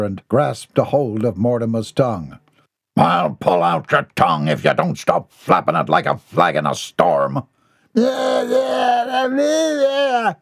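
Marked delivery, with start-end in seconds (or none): 3.0-7.4 low, menacing thug voice; growled threat. Acted. Brute Bodger threatens Mortimer while gripping his tongue, low growl. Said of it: "he growled". 7.9-10.3 very high strangled cries; protesting yelp. Acted. Mortimer protests with his tongue held, high panicked yelps. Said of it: "Mortimer protested".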